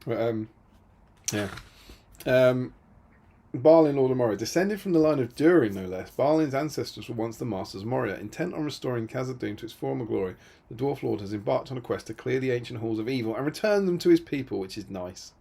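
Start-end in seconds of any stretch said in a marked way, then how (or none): 3.5-14.6 reading flavour text with a touch of ceremony; card text read aloud. Acted. Host reading Balin's card lore to chat, lightly grand.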